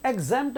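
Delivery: एग्जेम्प्ट with a long AY in the middle; wrongly stretched vowel. Shown as a demonstration. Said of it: "एग्जेम्प्ट नहीं है".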